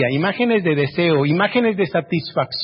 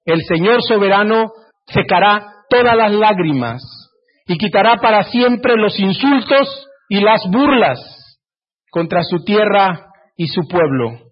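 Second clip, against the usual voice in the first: slow, weighty reading of the prophecy; measured pulpit reading; solemn scripture reading; 2 semitones higher than usual. Acted. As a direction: read it slowly like holy words.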